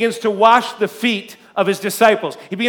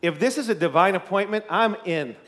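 a lightly hushed, softer retold prayer; 2 semitones lower, 6 dB quieter than usual. Praying to God beside his wife, mildly hushed. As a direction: murmur it like a private prayer to God. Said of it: "I whisper a short, heartfelt prayer".

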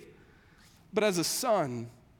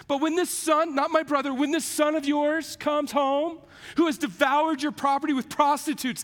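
angry complaint; 5 semitones higher than usual. Retold or imitated. Older son to his father, bitter angry complaint. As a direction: stress the never and this.

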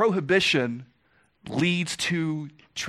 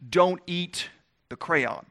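parent's warning; slower than usual. Retold or imitated. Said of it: "it's like when you tell your child".

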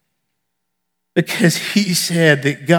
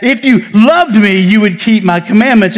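demanding God; 3 semitones higher than usual. Retold or imitated. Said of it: "a demanding and inspecting God".

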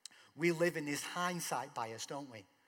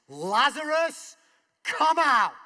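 shouted, much higher and louder, "Lazarus" drawn out; loud command; 11 semitones higher, 16 dB louder, slower than usual. Acted. Jesus calling Lazarus out of the grave, a mighty shout. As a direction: bellow it across the tomb. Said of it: "In a loud voice".

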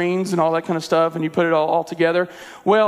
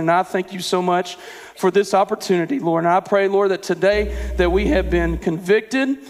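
prayer. Acted. Closing prayer.

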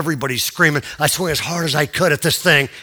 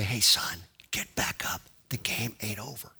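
very soft, low, half-whispered call; barely audible, as if just overheard; faint distant voice; 7 semitones lower, 13 dB quieter than usual. Retold or imitated. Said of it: "I heard this voice say".

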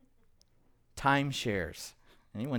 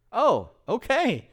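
higher, slow and drawn-out, mock understanding; knowing oh okay; 8 semitones higher, 3 dB louder, slower than usual. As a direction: let it drip with knowing doubt. Counselor reacting to weak gossip source.

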